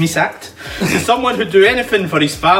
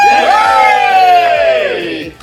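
high whooping cheer; excited cheer; 6 dB louder than usual. Real, not acted. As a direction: cheer it up into a squeal. Cheering the show opening.

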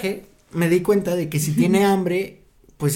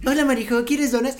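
imitating Johan; 5 semitones higher than usual. Quoting Johan offering donuts.

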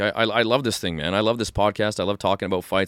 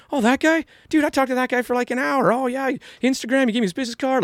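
much higher, breezy imitation of a friend; high, carefree friend voice; imitating a friend. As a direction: toss it off like meeting anyone is no big deal. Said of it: "And he's like".

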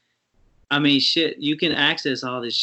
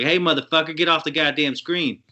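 higher-pitched street-talk impression; imitated ghetto warning; 4 semitones higher than usual. Imitating TikTok's third time-limit message, mock hood scolding. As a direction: order them off in a lightly acted hood voice. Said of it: "The third one is real ghetto".

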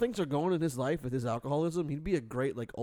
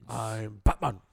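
Batman voice; 2 semitones lower, 3 dB louder, slower than usual. Retold or imitated. Batman impression.

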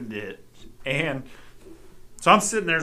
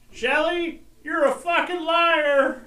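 higher, slowed mock shout of liar; retold yell; 14 semitones higher, slower than usual. Son imitating dad yelling at mom from the bedroom. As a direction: call it out from another room. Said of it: "you could hear Dad yell".

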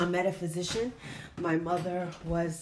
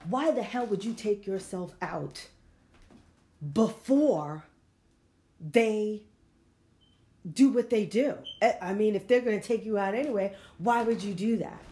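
emphatic; 2 semitones higher, 4 dB louder than usual. Real, not acted. Passionate rant against suicide.

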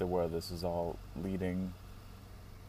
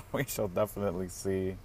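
laughing. Real, not acted. Laughing repeat of phrase.

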